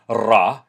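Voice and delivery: Ra trilled with the tongue tip; rolled r. Shown as a demonstration. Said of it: "you trill it with the tip".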